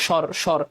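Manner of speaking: স্বর cut off as "shor"; stopped syllable. Shown as a demonstration. Teacher showing where to halt, স্বর as closed "shor". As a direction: stop on the r of স্বর, no final vowel. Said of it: "যেহেতু এখানে থামতে হচ্ছে".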